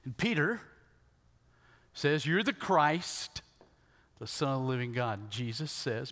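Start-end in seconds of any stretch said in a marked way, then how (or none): 2.2-5.2 bold proclamation. Acted. Peter declaring to Jesus who he is, boldly.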